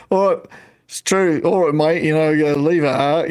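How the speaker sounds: lightly put-on London accent; London-accented mimicry; mock London accent. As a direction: imitate a Londoner chatting. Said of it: "he's landing it".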